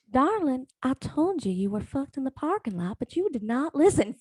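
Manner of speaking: intuition voice. Retold or imitated. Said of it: "Fuck you, intuition".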